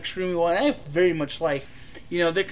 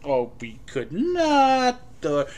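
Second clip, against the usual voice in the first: indecisive Jewish caricature; slower than usual. Retold or imitated. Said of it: "I'm going to be very Jewish".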